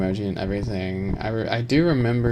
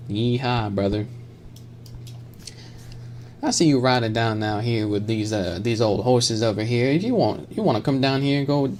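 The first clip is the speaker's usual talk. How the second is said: lightly drawn cowboy impression; a hint of a cowboy greeting a brother. Streamer tries a cowboy voice for chat, cowboy voice. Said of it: "Can I do a cowboy voice?".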